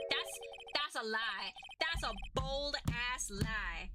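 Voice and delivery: drawn-out, emphatic outburst; over-excited. Real, not acted. Player calling out the witness's lie, over-excited. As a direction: get carried away calling it out. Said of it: "getting a little too excited".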